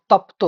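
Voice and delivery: তপ্ত pushed out with the cluster stressed; showing effort. Shown as a demonstration. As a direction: say তপ্ত with weight on the প্ত cluster. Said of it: "কিন্তু তপ্তটা বলো তো". (তপ্ত জোর দিয়ে উচ্চারণ)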